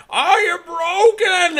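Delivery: high, slow, loud robot voice; Clank robot voice. Retold or imitated. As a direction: ham up a broken robot. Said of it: "The robot goes".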